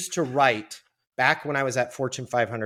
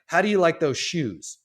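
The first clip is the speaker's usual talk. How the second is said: higher, louder sly tease; teasing question; 6 semitones higher, 5 dB louder than usual. Retold or imitated. Client teasing the new guy about his shoes, sly.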